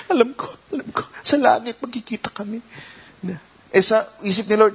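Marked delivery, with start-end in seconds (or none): 0.1-2.6 mock Martha. Voicing Martha's resigned reply.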